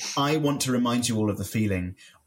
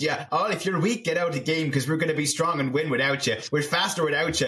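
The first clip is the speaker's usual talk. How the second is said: lightly put-on Irish accent, a bit higher; bad Irish accent; 3 semitones higher than usual. Mocking a player telling the weak to get out, shaky attempt at an Irish accent. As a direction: imitate him with a rough Irish lilt. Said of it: "That's not a great accent".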